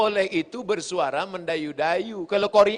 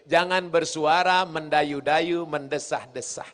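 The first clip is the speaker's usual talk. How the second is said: sultry voice. Shown as a demonstration. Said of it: "Bersuara tenang".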